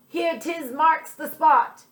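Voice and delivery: high, slow pirate call. Acted. Pirate finding the spot on the map, a slow high call. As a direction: call it out proudly. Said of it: "Pete finally called".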